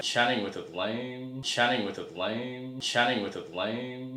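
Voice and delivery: slow tipsy repeat of a slur; drunk slurring. Shown as a demonstration. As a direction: say it slowly, lazily slurred. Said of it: "please keep that".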